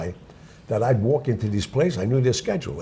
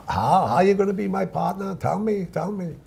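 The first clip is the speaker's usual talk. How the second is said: high-pitched heavy Jewish accent, imitated; 9 semitones higher than usual. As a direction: press for an answer in a thick Jewish accent. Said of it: "with a heavy Jewish accent".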